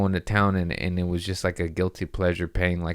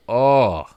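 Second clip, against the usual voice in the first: louder "oh" of suffering; acted pained groan; 3 semitones higher, 6 dB louder than usual. Patient as dentist pulls out the crap, acted groan. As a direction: replay groaning through it. Patient watching infection pulled out.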